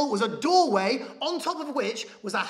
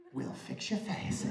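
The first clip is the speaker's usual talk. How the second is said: put-on low, slow whispered accent; conspiratorial whisper; 11 semitones lower, 10 dB quieter than usual. Dentist winking after drug request, conspiratorial whisper. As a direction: whisper it like a secret deal. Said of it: "winked to me and went".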